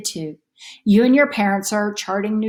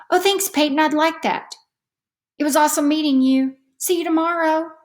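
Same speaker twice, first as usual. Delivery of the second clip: put-on higher, cheerful child voice; happy girl; 8 semitones higher than usual. A narrator's reading. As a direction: say goodbye brightly to a new friend. Patty answers her new friend.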